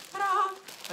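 high showy ta-da; ta-da reveal. Real, not acted. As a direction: unveil it with a flourish. Unveiling pillow cover.

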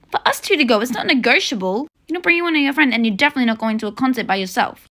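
a fed-up mother's scolding; angry mom. Acted. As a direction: lay down the law, fed up. Mom scolds rude daughter.

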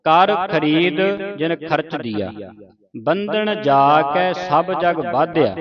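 slow, measured Gurbani reading; scripture recitation. Shown as a demonstration. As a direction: recite slowly, drawing out the words.

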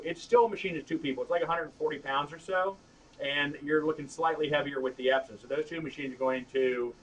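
tinny and loud, like a bad mic; thin, tinny mic sound. Real, not acted. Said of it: "my voice is tinny and loud".

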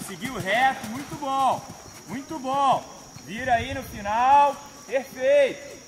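calling from far away. Real, not acted. Calling instructions across arena.

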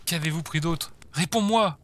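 fierce interrogation. Acted. Interrogator questions a captive in a nightmare, fierce and rising.

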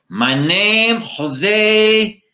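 high, loud drawn-out Latino puppet voice; Latino-accented eagle puppet. Acted. Eagle puppet introduces himself to the ventriloquist, loud Latino accent. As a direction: sing out the name in a Latino accent. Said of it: "you have a Latino accent".

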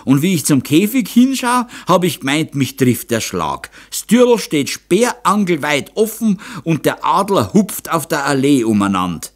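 high, loud protest in dialect; agitated old man swearing innocence; gasping old man. A narrator's reading. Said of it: "keuchte der Alte". (aufgeregter Alter, hoch und laut im Dialekt)

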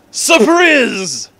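shouted high "Surprise!"; mock surprise. Reader springing a surprise on listeners, loud and high. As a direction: burst out with a big reveal. Author's note surprise exclamation.

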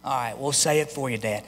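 put-on reluctant kid. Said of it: "you go".

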